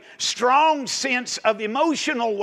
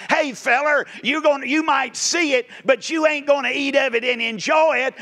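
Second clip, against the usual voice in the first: higher-pitched, emphatic call-out; preacher's mock challenge; 4 semitones higher than usual. Preacher answering the doubting politician as the prophet, emphatic challenge.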